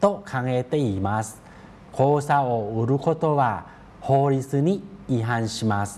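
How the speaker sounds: measured, careful reading of a Japanese news sentence. Acted. Teacher reads Japanese news to Thai learners, in a measured reading voice. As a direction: read it out like a teacher modelling a news line.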